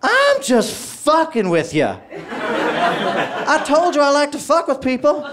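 high, crowing cop impression; gleeful prank reveal. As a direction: crow triumphantly as the prankster officer. Officer gleefully reveals his prank.

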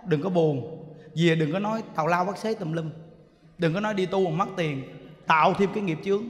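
low, soft, grave monk scolding gently; stern monk's warning. Retold or imitated. A monk quietly warning the grieving woman, low and grave. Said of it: "nói á".

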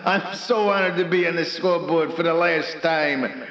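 lightly voiced Dutch accent; attempted Dutch accent. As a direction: try a tentative Dutch accent. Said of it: "Can you do a Dutch voice?".

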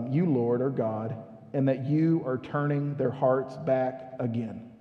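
quiet, slow prayer read for drama; slow dramatic reading. Shown as a demonstration. Reading Elijah's prayer to the church, slow and dramatic. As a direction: read Elijah's prayer slowly and softly, with weight. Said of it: "I'm gonna read it slow even".

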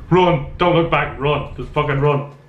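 flee in a panic; being chased. Real, not acted. Fleeing the monster.

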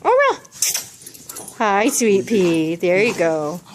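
loud greeting. Real, not acted.

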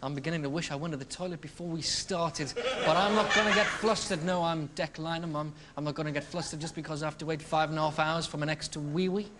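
put-on a quiet nervous kids' host needing the loo; lightly voiced fretful presenter; Declan parody. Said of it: "with me, Declan".

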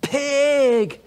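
high, loud mock yell out a car window; woman yelling pig from her car; shouted insult. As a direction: shriek it across the road. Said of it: "she shouted out of her window".

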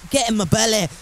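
put-on lighter first go at a Scottish accent. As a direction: read it out with a mild Scottish accent. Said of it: "tap into my Scottish accent".

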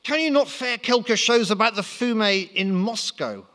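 very high squeaky French voice; French accent. Acted. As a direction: pitch right up, comic Frenchman. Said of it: "asked Napoleon".

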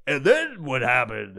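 lightly voiced DJ chatting; a hint of announcer voice in small talk; radio DJ voice. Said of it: "Why don't they just talk fucking regular?".

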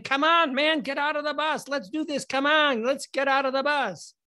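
high-pitched pushy urging; urgent prodding. Acted. George behind his friend pushing him out of the bus, urgent prodding. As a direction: hurry a stalling friend along. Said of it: "and he's saying".

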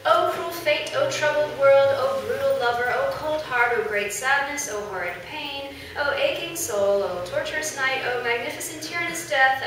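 loud sweeping tragic declamation; tragedian. Acted. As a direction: wail it like a tragic hero. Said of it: "quand tu chantes".

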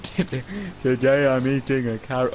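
lightly voiced mock witch ASMR; a hint of a cackling witch. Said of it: "You don't have to sound like a witch".

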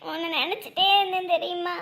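crying. Acted. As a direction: pour out how you missed him, weeping. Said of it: "அழக்கூடாது".

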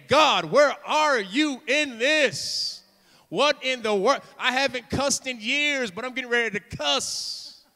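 loud, drawn-out cry to God; half-joking exasperated outburst; exasperated plea. Acted. Acted exasperated prayer to God.

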